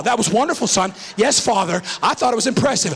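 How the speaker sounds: lightly put-on formal politeness; understated parody of stiff church manners; measured, solemn courtesy played for laughs; mock-pious father and son. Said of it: "we went the Baptist route. Watch this now".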